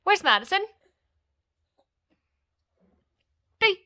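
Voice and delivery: high, loud mock searching, then a pop; peekaboo game. Mother pretending she can't see baby, playful peekaboo voice. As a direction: play loudly at finding a hidden baby.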